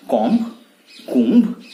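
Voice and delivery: "कॉम्ब" with B sounded, then "कुंभ" as koombh; wrong pronunciations. Shown as a demonstration. Teacher listing the mistakes, wrong pronunciations. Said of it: "कुछ भी नहीं".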